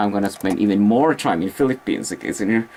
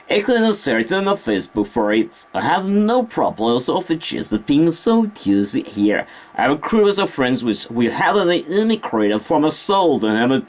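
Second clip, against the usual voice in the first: standard BBC accent; 5 semitones higher than usual. Shown as a demonstration. Streamer showing viewers a standard English accent, put-on BBC accent. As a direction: do a higher-pitched British broadcast accent. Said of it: "The standard P B C accent".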